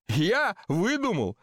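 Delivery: high, slow incredulous outrage; wounded indignation, swooping high in pitch; indignant. A narrator's reading. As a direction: stretch it into an affronted question. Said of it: "возмущённо сказал Васисуаль Лоханкин".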